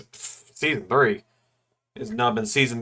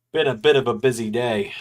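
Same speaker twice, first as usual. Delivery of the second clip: talking through a yawn; words stretched by a yawn. Real, not acted. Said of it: "apologize that I'm yawning so much".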